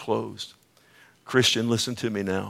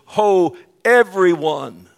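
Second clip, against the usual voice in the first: preacher hails the whole congregation, loud drawn-out call; 7 semitones higher, 10 dB louder, slower than usual. Acted. Preacher proclaims God's universal invitation, calling out loudly. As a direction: cry it out high and slow.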